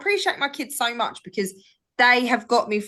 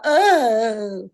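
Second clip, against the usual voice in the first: long imitated wail, rising then falling; mock cry; 4 dB louder than usual. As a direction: wail like a crying child, put on. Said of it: "she actually genuinely loves crying".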